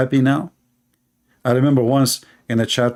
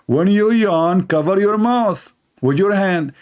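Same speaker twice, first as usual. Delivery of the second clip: slow reading out; 5 semitones higher, slower than usual. Retold or imitated. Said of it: "There he says here".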